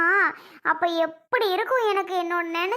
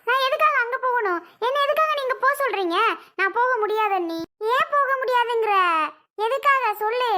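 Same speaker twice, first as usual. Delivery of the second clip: raised, higher-pitched indignant protest; a heated, higher-pitched quarrel; 4 semitones higher than usual. Acted. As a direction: demand the reason, voice climbing high. Women quarrel over going back.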